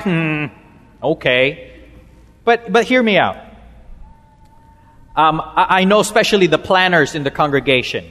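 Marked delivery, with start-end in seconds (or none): 0.0-1.7 low, hesitant doubtful murmur; doubtful listener. Acted. Preacher mimics congregation hearing the sermon title, doubtful. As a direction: respond with reserved, unconvinced doubt. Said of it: "some of you are like".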